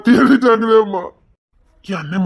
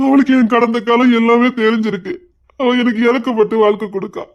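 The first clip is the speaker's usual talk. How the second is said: crying; 2 semitones higher than usual. Acted. Son cries about his wife.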